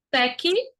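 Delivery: TÉCNICA split as "ték... ni... ca"; syllable division. Shown as a demonstration. Teacher separating the word for students, syllable by syllable. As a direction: pause between each syllable of TÉCNICA. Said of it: "Como é que se separa a técnica?".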